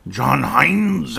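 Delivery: a hint of a raspy coach saying his own name. Host mimics the raspy-voiced coach's name. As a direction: lightly rasp out the name like the coach. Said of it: "had kind of a raspy voice like that".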